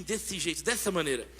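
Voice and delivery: "desse jeito, dessa maneira" with a lisping sh for every s; slushy sh for s. Shown as a demonstration. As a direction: lisp the s sounds in "desse" and "dessa". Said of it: "ela fala assim".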